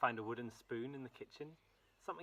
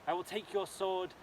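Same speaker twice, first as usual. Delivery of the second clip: brave princess; 3 semitones higher than usual. Acted. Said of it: "she said".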